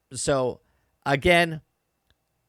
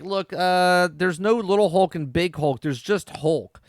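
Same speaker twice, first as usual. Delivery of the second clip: mock lecturing; 5 semitones higher, 4 dB louder than usual. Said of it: "she's criticizing her parents right now".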